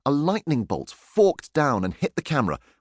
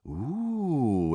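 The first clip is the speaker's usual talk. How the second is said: realizing ooh; 3 semitones higher, 4 dB quieter than usual. A narrator's reading. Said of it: "all raising their eyebrows".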